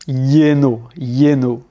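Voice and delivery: lleno opening on a y, yé-no; double L as Y. Shown as a demonstration. Teacher drilling double L, lleno said yé-no. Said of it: "un peu comme un Y".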